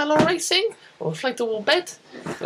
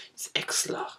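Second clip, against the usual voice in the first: whispered answer; 7 dB quieter than usual. Retold or imitated. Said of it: "I go".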